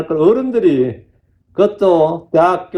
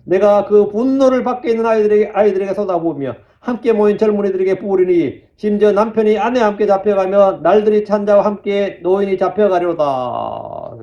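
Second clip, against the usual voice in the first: sustained, declamatory Bible reading; scripture reading; 2 semitones higher than usual. Acted. Reads scripture aloud to congregation. (성경 구절 낭독조)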